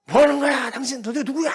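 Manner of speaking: high, loud furious yell at an intruder; retelling an angry homeowner's yell; angry yelling man. Retold or imitated. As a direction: bark it like a startled homeowner. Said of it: "승질을 내는 거예요".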